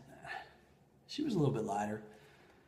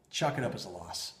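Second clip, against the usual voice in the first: low, soft consoling words; tenderly letting it go; gentle reassurance; 6 semitones lower, 5 dB quieter than usual. Retold or imitated. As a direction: soothe a partner, quiet and unhurried. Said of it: "very, very gently".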